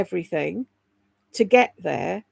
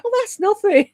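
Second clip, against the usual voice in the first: much higher and a little louder, airy brush-off; breezy dismissal; 11 semitones higher, 5 dB louder than usual. Retold or imitated. Now older, she mock-breezily dismisses dying at eighty. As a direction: wave it off like eighty is young. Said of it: "now I'm like".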